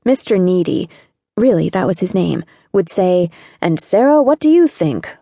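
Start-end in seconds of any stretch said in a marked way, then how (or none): 3.6-5.1 higher-pitched, pointed challenge; teacher singling out a student pointedly; pointed question. A narrator's reading. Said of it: "all pointedly".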